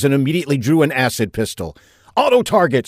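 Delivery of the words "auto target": high, loud barked order to the machine; shouted command. A narrator's reading. Saffinger ordering his gun machine to fire, loud shout. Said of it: "Saffinger shouted".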